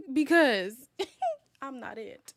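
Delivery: high squeaky laugh breaking through the words; laughing so hard it nearly turns to tears; crying with laughter. Real, not acted. Joking to the chat about dating shows, crying with laughter. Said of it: "I'm about to cry".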